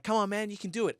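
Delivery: high-pitched cheering-on; mock encouragement. Partner to struggling climber at the last hold, cheerily encouraging. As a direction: imitate an upbeat friend urging someone on.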